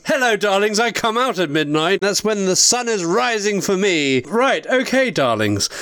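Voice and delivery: lightly sultry late-night hostess; femme fatale. Acted. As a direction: purr a greeting to the darlings. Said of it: "bring the princess on".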